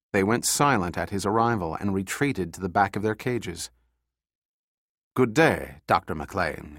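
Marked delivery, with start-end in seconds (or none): 5.1-6.8 lightly voiced European officer, courteous and cold; a hint of a European accent, slow and polite. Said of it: "speaking in a European accent".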